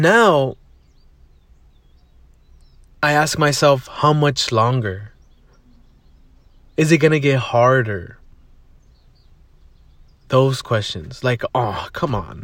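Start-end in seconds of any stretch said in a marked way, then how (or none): 3.9-8.2 mild weary complaint; complaining. Retold or imitated. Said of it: "complaining kind of". 11.5-12.4 softer, lower groan of complaint; half-hearted weary whine; complaining. Retold or imitated. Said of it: "complaining kind of".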